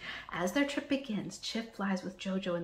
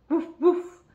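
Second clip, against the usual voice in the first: loud, higher woof; dog bark; 8 semitones higher, 10 dB louder than usual. A narrator's reading. Jojo greeting the block back, loud bark. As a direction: bark a happy hello.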